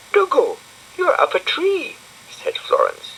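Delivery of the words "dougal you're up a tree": put-on high bright little girl voice; high-pitched girl character; Florence's voice. A narrator's reading. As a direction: lift into a girlish squeak for Florence.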